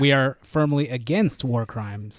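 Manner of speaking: mock solemn. Mock public service disclaimer.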